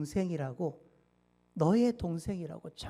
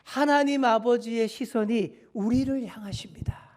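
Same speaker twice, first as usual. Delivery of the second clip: proclaiming to neighbor; 3 semitones higher, 5 dB louder than usual. Shown as a demonstration. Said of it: "옆에 계신 분께 한번 이렇게 말해주겠습니다".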